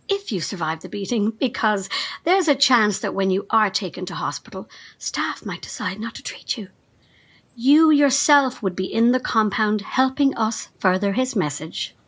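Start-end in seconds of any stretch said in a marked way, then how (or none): 5.0-6.7 much softer, whispered threat; menacing whisper. Acted. Carl threatening the reporter with no care, in a whisper. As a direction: drop to a chilling whisper. Cult aide threatens a journalist.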